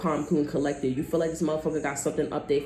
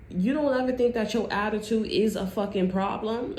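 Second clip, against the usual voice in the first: incredulous challenge; 6 semitones higher than usual. Acted. Voices the person challenging the other.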